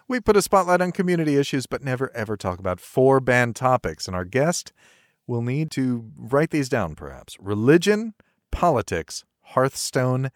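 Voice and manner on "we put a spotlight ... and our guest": brisk announcer read; show intro read. Acted. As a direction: read it like a radio host.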